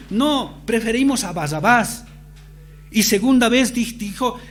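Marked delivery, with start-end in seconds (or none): 0.1-2.0 crowd shouting. Retold or imitated. Crowd answering Pilate, demanding Barrabas.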